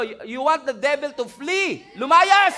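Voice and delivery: shouted rebuke, high and loud; commanding shout. Pretend. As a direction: drive the devil out with a yell. Preacher acts casting devil out.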